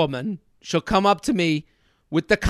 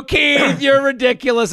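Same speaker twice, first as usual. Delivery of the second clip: embarrassed laugh; 5 semitones higher than usual. Retold or imitated. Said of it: "I was so embarrassed".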